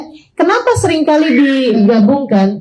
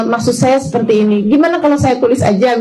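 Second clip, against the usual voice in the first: sweetly patient. Acted. Explaining respectfully to the boss's envoy, sweetly patient. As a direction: gently offer another way, acted politely. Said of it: "ada cara-cara yang manis".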